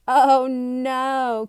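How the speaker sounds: high, loud dismayed cry. A narrator's reading. Child cries out in dismay at the burping dog, high and loud. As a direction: wail it out in mock horror. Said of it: "Kiko cried".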